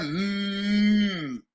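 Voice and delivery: MM hummed very long; held M. Shown as a demonstration. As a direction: sustain MM as one steady hum. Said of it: "You hold M".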